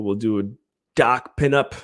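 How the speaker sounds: put-on a light stab at an Australian accent on "doc pinup"; "doc pinup" with a playful, half-hearted Australian twang. Streamer mimics a friend's catchphrase, light Australian accent. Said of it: "That's my best, uh, Australian accent".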